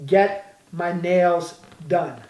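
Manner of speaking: very slow, clear example; slow model phrase. Shown as a demonstration. Teacher spelling out the example for learners, very slow. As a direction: draw out each word for the class. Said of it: "Por exemplo".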